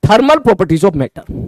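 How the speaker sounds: each word drawn out slowly for notes; slow dictation. Shown as a demonstration. Teacher dictating the chapter name slowly to the class. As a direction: dictate the title slowly so students can write.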